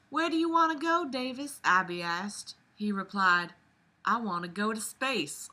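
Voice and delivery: Southern Belle narration. Acted. Reader continuing the chapter aloud, Southern Belle accent. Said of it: "do the Southern Belle voice".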